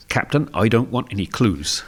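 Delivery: light West Country burr; West Country accent. Retold or imitated. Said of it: "I was trying to do the West Country accent".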